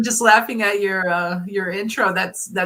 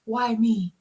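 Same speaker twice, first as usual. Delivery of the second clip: dramatic self-pity; 3 semitones higher, much slower than usual. Retold or imitated. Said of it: "I'm very dramatic".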